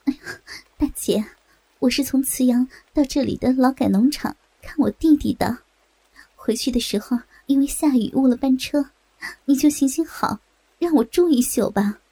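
mild, breathy plea for a favor; understated imploring traveler; pleading. Acted. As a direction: beg politely, partly in a half-whisper. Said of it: "女子哀求着".

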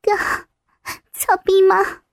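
meek, timid character voice; a touch of pitiful pleading; pitiful question. Acted. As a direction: ask it haltingly, with long pauses. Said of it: "可怜巴巴地问".

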